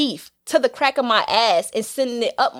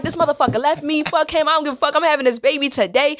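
higher-pitched mock outrage; indignant rant; 6 semitones higher than usual. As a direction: rant defiantly, as if done with him. Retold angry rant to a rapper on phone.

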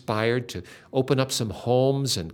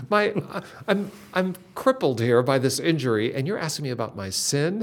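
indignant retold outrage; 2 semitones higher than usual. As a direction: play her indignation at the pastor, half amused. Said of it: "this is what she recounted later was in her heart".

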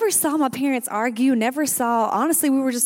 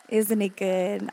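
slower, settled, heartfelt; gentle repeat; slower than usual. Real, not acted. Praise after prayer.

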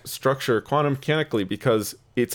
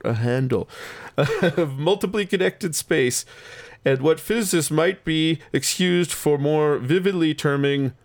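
slow, drawn-out mock old-fashioned reading; fancy old-timey voice; 3 semitones higher, slower than usual. Shown as a demonstration. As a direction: read it slowly like a grand old paper. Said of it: "my fancy old-timey voice".

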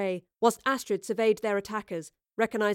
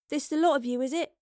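nonchalant; 6 semitones higher, faster than usual. A narrator's reading. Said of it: "Astrid asked nonchalantly".

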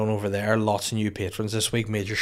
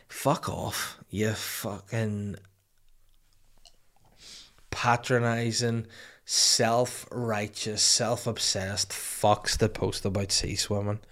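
swearing tirade; 4 dB quieter, slower than usual. Real, not acted. Swearing at posters.

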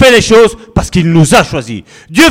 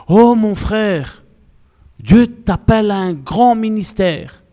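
mock prophet; 6 semitones higher, slower than usual. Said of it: "Pour bien me faire voir".

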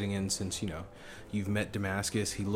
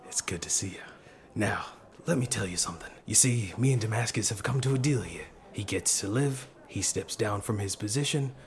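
Ari's voice. Acted. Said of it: "now I have to think of his voice as I go".

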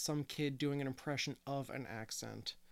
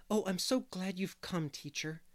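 put-on eager little boy, pitched higher; 5 semitones higher than usual. A narrator's reading. Boy welcomes his visiting teacher, eagerly. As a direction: bubble over with eagerness. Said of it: "he said eagerly".

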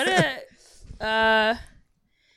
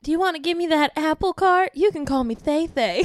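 quick, lightly Southern lilt; Southern belle; 3 semitones higher than usual. Acted. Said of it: "the Southern Belle".

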